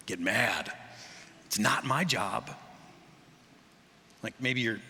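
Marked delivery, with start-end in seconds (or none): 1.5-2.5 slow, sulky "It's not my job" ending in a rise; mock teenage refusal; sullen refusal. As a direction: whine it like a bored teen. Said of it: "when people say that".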